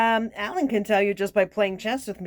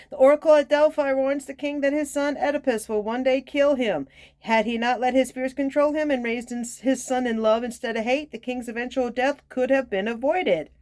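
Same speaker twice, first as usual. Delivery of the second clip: raised, steady reading voice; story read aloud; 5 semitones higher than usual. Real, not acted. Card reader telling the Oedipus myth, reading aloud. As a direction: read the tale out evenly, pitched up.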